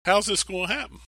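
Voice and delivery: put-on a bewildered girl objecting to the angel; Mary protesting. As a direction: plead the impossibility with wide-eyed disbelief.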